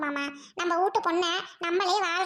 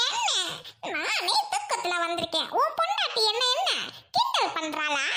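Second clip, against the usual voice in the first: acted crying complaint; tearful; 2 semitones higher, slower than usual. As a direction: whine it through tears. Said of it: "ஏன் அழுவுற?".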